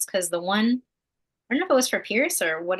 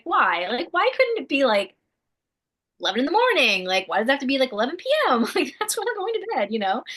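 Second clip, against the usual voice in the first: mock exasperated whine; 7 semitones higher than usual. Complaining about night water breaks.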